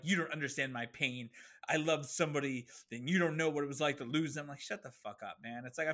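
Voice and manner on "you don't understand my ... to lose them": mock whiny lament. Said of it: "someone's like".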